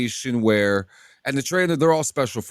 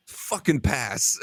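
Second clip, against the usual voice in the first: deadpan verdict; 3 dB quieter, slower than usual. Retold or imitated. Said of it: "the trainer looks at Amendola and he goes".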